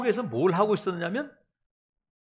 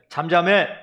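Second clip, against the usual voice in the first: louder, one firm command to the storm; commanding shout; 3 semitones lower, 8 dB louder than usual. Retold or imitated. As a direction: silence the wind with one word. 예수가 바람에 명령. (폭풍을 향해 크게 외치는 명령 "잠잠해")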